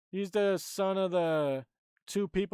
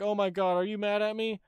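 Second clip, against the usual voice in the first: put-on higher, rushed girlish pleading; girl apologizing to Carol, higher and anxious; imitating frantic apologetic girl; 3 semitones higher than usual. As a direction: play a panicky kid begging forgiveness. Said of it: "she was like".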